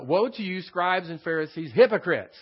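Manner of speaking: loud, rising to a shout on hypocrites; preacher demonstrating the full emphasis of the woe; emphatic woe. Shown as a demonstration. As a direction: hit woe and hypocrites hard like Jesus denouncing. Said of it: "you gotta put that kind of emphasis on it".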